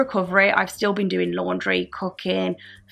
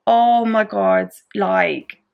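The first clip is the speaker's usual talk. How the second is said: emphatic exclamation; much slower than usual. Retold or imitated. Recalling the worst pain.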